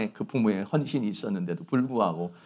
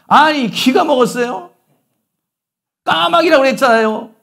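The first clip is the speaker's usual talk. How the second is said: much higher and louder, yelling at his father; furious son; 12 semitones higher, 9 dB louder than usual. Retold or imitated. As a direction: son shouting at his father for asking again. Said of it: "이렇게 화를 냅니다". (아버지에게 소리치는 아들, 크게 화내며)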